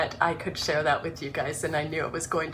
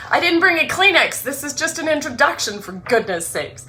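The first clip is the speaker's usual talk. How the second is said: laughing through the words, pitched up; laughing at herself; 8 semitones higher, 6 dB louder than usual. Real, not acted. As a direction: laugh it off mid-reading. Laughing at herself mid-reading.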